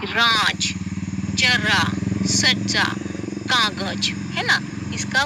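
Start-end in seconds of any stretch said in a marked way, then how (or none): 0.0-4.1 राज, जरा, सज्जा, कागज with a clear z sound; nukta z sounds. Shown as a demonstration. Teacher shows students राज, जरा, सज्जा, कागज with a z sound. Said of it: "उसका उच्चारण हमें करना है".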